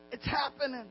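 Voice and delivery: soft, playful aside; playful catchphrase. Acted. Pastor joking about church growth, softly playful. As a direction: drop it softly, then chuckle.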